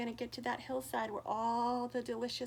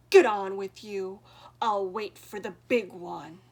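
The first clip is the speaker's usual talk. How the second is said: much louder gruff troll; growl; 3 semitones lower, 12 dB louder than usual. Acted. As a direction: wave him on with a growl. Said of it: "growled the troll".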